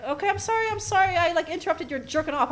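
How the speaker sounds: high-pitched pretend pleading apology; mock apology. Player to a naked character he interrupted, mock-apologetic.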